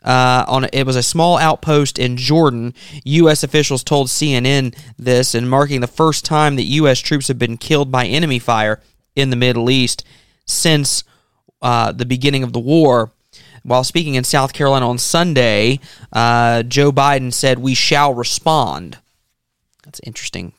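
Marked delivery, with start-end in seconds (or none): 0.0-17.6 measured, serious news-reading delivery. Real, not acted. Host turns to more serious news from Jordan, news read. 17.6-19.0 quoted statement spoken slowly and evenly; slow, deliberate quote. Retold or imitated. Host quoting the president's response to the attack, slow and deliberate.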